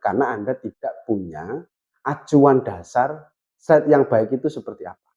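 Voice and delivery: a sample presentation in everyday, natural intonation; a model slide lesson in a natural speaking tune. Shown as a demonstration. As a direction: present it the way you would talk to a friend, naturally. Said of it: "Saya kasih contoh seperti ini ya".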